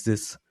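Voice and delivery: "this" said with a z-like sound for the TH; German-style TH. Shown as a demonstration. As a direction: avoid the lisped TH in "this". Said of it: "they talk like this".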